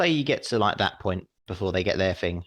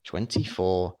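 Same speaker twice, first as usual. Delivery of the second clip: ordinary talk, nothing marked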